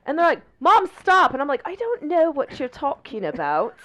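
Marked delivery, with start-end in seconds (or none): 0.6-1.3 imitating an annoyed child, high and loud; mock-exasperated kid protesting to mom; pissed-off kid. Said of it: "They're legitimately pissed off". 1.6-3.7 mock-innocent British accent; teasing British feigned ignorance, a bit high. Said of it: "in a British accent".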